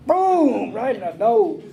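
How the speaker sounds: high sudden boom; emphatic boom. Retold or imitated. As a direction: punch out the sound of the hit. Telling of the backhand.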